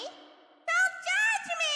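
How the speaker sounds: high, slow mock whine; whiny. Real, not acted. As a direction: drag out a playful protest. Playful protest.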